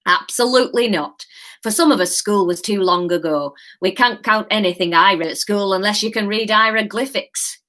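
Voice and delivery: put-on a light Yorkshire old man, reassuring. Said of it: "reassuring old man accent".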